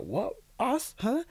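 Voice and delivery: hushed disbelief leaping up high; retold wonder, short questions rising sharply; astonished. Reader learning his people built empires, astonished. Acting surprise at Black achievements.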